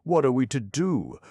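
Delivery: high, loud, anxious plea; frightened ox asking what to do; distressed cry. Acted. Frightened ox pleading.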